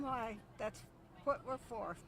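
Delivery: choked up and quiet; emotional. Real, not acted. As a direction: voice catching with feeling. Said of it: "I'm sorry I'm emotional".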